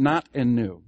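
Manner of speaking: "not" and "new" each punched loud; stress on both words. Shown as a demonstration. Pastor names the two emphases for the class, both stressed. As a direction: give "not" and "new" equal hard weight. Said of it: "Those are the".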